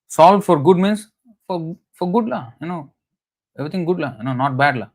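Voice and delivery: high Singapore-Malaysian mimicry of "for good la"; Singapore Malaysian English. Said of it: "in a classic Singapore and Malaysian style".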